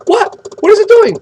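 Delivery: theatrical gasp of wonder, pitched high; mock astonishment. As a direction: play up the shock for the class. Mock amazement at water boiling.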